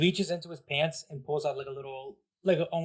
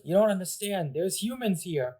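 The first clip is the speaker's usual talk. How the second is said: Koopa henchman; 4 semitones higher than usual. Acted. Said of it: "He goes".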